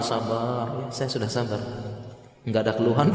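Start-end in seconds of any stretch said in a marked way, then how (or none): 0.0-1.6 mock calm. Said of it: "siangnya tenang".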